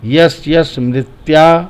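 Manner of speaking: यश, यश मृत्या broken into three chunks; in three pieces. Shown as a demonstration. Teacher shows the grouping, three distinct pieces. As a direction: separate यश, यश and मृत्या with tiny breaks. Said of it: "तीन टुकड़े में होगा".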